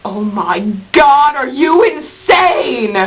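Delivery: drawn-out, exaggerated exclamation; mock outraged shout. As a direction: shout it slowly in mock disbelief. Mock outburst answering a question.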